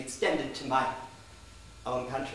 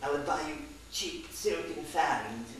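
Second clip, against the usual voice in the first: British tourist. Retold or imitated. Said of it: "he said to me".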